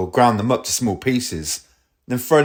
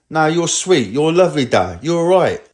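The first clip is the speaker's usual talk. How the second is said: higher-pitched imitation of a mate reassuring; retold breezy reassurance; 6 semitones higher than usual. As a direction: wave away his worries, pitched up. Brushing off refusal with reassurance.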